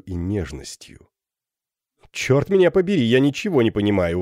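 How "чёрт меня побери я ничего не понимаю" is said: higher, louder puzzled outburst; excited exclamation. Acted. Captain exclaims at the girl's words, excited. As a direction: blurt it out, baffled and eager. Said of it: "воскликнул капитан".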